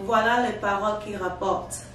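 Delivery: New York accent on French, carefully sounded; reading phonetic French. Shown as a demonstration. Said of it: "stamping out things phonetically".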